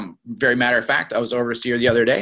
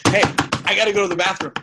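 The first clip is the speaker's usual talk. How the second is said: high-pitched desperate plea; hammed-up bathroom emergency; super urgent; 8 semitones higher, faster than usual. Shown as a demonstration. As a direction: blurt it like you can't hold it. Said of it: "it's going to go super urgent".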